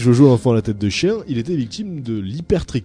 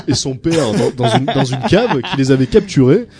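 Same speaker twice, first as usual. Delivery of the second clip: words through a chuckle; laughing while telling; 5 dB louder than usual. Real, not acted. Host telling listeners about Jojo, laughing. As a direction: laugh through the story, a little louder.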